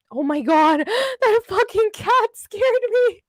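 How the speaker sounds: high, loud startled yelp breaking into laughter; real fright, laughing it off. Real, not acted. Streamer spooked by the cat, startled and laughing. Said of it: "That scared me so much".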